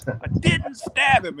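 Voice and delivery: high, drawn-out mock scream without much volume; mildly hammed-up high-pitched protest; retold screaming. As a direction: imitate a man wailing his innocence, slowly. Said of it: "just screaming this out loud".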